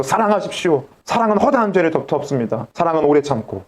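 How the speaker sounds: lightly mimicked pulpit delivery; 설교하는 말투. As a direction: recite it like a preacher to a congregation, understated. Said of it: "사람들 앞에서 설교하면서". (설교 투를 가볍게 흉내)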